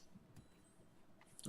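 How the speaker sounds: slow, stretched through a yawn. Real, not acted. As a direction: say it while yawning. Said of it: "I'm yawning so much".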